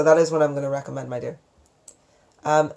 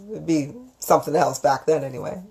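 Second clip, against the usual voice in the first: ordinary delivery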